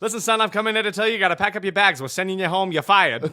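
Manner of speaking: fast, lightly voiced announcer; a hint of a booming announcer. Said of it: "everyone talks like an announcer".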